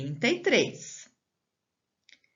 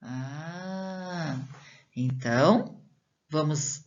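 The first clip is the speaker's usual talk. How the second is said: usual speaking voice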